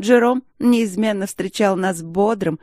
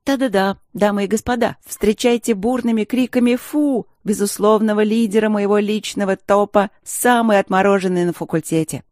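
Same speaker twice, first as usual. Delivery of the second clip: mock announcer, raised pitch; ringmaster; 3 semitones higher than usual. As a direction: hype it like a circus barker. Mock announcer introducing the prince.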